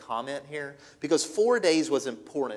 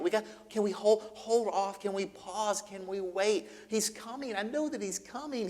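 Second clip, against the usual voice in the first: grieving plea; 4 semitones higher, 4 dB quieter than usual. Acted. Grieving sisters plead to wait.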